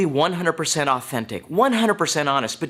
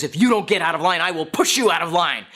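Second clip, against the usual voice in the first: retold angry threat, moderately raised; mild mock yell; 3 semitones higher than usual. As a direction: threaten her firmly, as a half-yelled imitation. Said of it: "he yells one more time".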